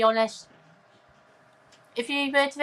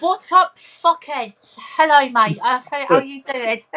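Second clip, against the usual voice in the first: reading a greeting; 3 dB louder than usual. Retold or imitated. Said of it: "We got Game Junkies here saying".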